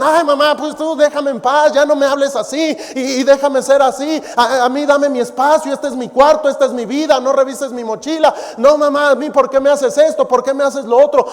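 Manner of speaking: mildly hammed-up teen yelling at mother; imitating disrespectful youth. Preacher imitating disrespectful youths shouting at their parents, mock protesting. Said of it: "les gritan y vociferan".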